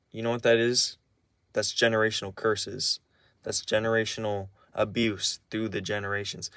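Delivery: quiet, measured calm answer; retold calm reply. Telling grandparents about generational curses, calm and measured. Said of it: "I say calmly".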